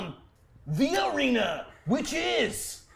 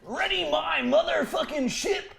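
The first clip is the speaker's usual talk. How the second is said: commanding shout; 2 semitones higher than usual. Acted. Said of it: "I'll say it again".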